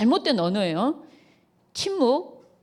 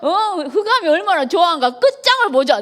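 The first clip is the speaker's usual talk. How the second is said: higher, laughing mock fury; mock angry mom; 6 semitones higher than usual. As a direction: challenge the daughter to a showdown, hammed up. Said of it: "내가 막 이런 적이 있다니까요".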